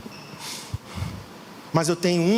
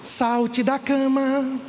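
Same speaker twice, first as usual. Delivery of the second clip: drawn-out slow call, higher pitched; meme quote; 5 semitones higher, much slower than usual. Retold or imitated. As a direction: stretch it slowly like a wake-up call. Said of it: "O meme de uma cantora". (chamado lento e arrastado)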